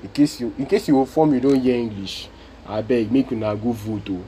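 switching into Nigerian Pidgin; casual Nigerian Pidgin plea. Real, not acted. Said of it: "I have to speak pidgin".

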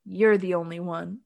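deadpan, no feeling at all; flat, no emotion. Retold or imitated. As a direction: say it like you don't mean it. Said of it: "but with no emotion".

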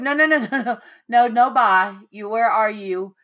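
high, rapid string of objections; retold motherly alarm, cutting him off. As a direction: urgently stop him hanging up. Mother retells alarm at son's call.

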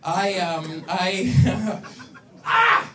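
breathless from laughing; gasping between words; out of breath. Real, not acted. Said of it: "Sorry, I was running out of breath".

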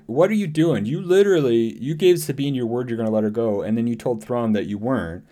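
demanding to know what he is doing; exasperated disbelief. Retold or imitated. Shin confronting Baylan, exasperated and incredulous. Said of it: "And she's like".

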